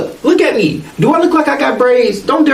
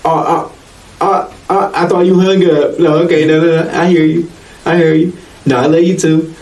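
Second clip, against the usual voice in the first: giggly late night call; 4 semitones lower than usual. Retold or imitated. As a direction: lower sweet lovey-dovey talk. Acted lovey phone call.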